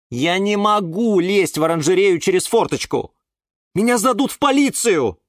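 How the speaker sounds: high, worried objection; sighing protest. A narrator's reading. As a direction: plead against climbing in. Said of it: "вздохнул Юра". (жалобно, высоким голосом)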